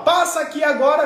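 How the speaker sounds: commanding father. Acted. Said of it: "O pai fala".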